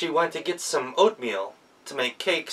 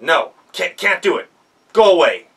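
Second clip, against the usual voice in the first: curt, louder refusal ending in a sharp shout; gruff refusal; 4 semitones higher, 7 dB louder than usual. Acted. Miller turns the girl away with a curt, loud refusal. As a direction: slam the request shut.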